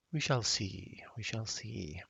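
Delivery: half-American, half-British mock accent; a lightly put-on transatlantic accent; mild mock British; fake British accent. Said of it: "transatlantic mix of American and British".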